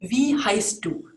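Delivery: slow, clear Wie heißt du; careful German. Shown as a demonstration. Teacher modeling the informal question slowly. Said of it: "let's start off by asking".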